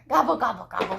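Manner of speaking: quick gobbles dropping away; turkey gobble. Shown as a demonstration. Teaching a toddler what the turkey says, quick gobbling. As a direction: gobble in a tumbling run of three. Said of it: "The turkey says".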